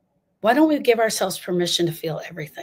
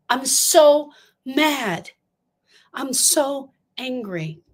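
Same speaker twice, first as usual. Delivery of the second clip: slow, drawn-out pitched-up cry of anger; mock angry outburst; 5 semitones higher, much slower than usual. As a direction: let the frustration spill out slowly. Voicing griever venting anger.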